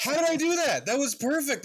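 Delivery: high, loud cartoon dad voice; Peter Griffin voice. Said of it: "perfect Peter Griffin impression".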